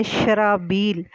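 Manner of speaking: شرابیل spelled out slowly, each syllable clear; شرابیل drawn out like a teacher's model word; correct pronunciation. Shown as a demonstration. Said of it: "جو ہے درست لفظ ہے".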